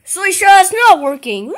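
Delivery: calling out loudly; shouting a name. Acted. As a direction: yell across the room. Calling out across the room.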